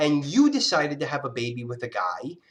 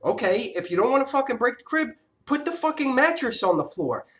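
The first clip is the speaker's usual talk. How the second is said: retold angry demand; 7 semitones higher than usual. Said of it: "And I said".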